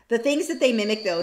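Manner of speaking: ordinary talk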